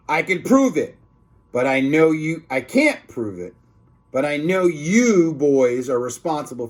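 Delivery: a hint of an angry principal; stern principal. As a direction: scold the boys firmly.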